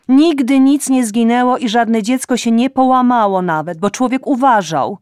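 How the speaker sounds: loud, high nagging reproach; scolding mother. A narrator's reading. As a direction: lecture her like an indignant mother. (matka głośno i z wyrzutem strofuje córkę)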